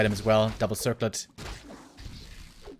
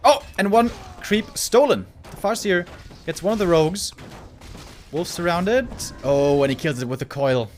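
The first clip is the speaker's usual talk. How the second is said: excited play-by-play, rising louder; esports caster; 6 semitones higher, 7 dB louder than usual. Real, not acted. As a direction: call the action live and hyped.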